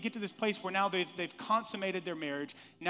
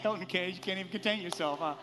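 excited teasing call-out; 3 semitones higher, 4 dB louder, faster than usual. Real, not acted. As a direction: rib him from the pulpit, grinning. Teasing a musician aloud.

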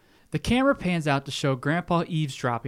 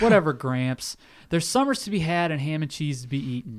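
laughing. Retold or imitated. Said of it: "The two smile and say".

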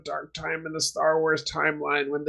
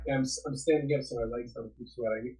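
tinny distant call line; thin voice no bass; 2 semitones lower, 9 dB quieter than usual. Real, not acted. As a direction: speak through a thin, bassless line. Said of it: "you sound tinny and far away".

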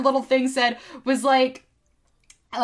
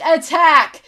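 high, loud charge order; mock battlefield yell; G I Joe; 7 semitones higher, 10 dB louder than usual. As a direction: shout the charge like a toy soldier. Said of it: "the G I Joes would say".

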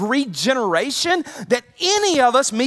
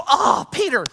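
mock praise. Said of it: "Did Jesus go".

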